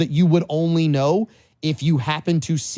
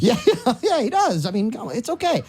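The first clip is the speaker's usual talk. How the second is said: laughing; 8 semitones higher than usual. Real, not acted. Still laughing at joke.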